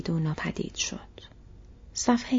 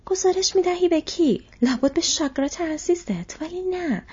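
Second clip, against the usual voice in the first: high, taunting comeback; scornful retort; 10 semitones higher, 4 dB louder than usual. Acted. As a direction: throw the threat back mockingly, voice up high. Tracker mocks the soldier's threat. (جواب تمسخرآمیز با صدای زیر)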